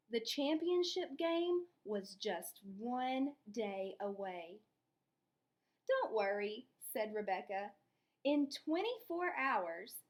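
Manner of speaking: lively read-aloud storytelling; expressive children's story narration. A narrator's reading. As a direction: read it to the class like a picture book. Teacher reads story aloud.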